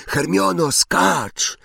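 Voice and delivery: high-pitched call to a friend above. A narrator's reading. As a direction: call her down, urging the jump. Calling to friend above to jump.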